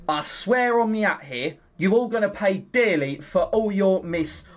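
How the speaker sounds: muttered threat in put-on Cockney; Cockney accent. Character vows the liars will pay, Cockney grumbling. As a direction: swear revenge in a Cockney accent. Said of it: "I've got into my Cockney accent".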